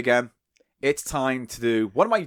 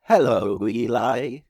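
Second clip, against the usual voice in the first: robot voice; 4 semitones lower, slower than usual. Retold or imitated. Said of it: "when I did my robot voice".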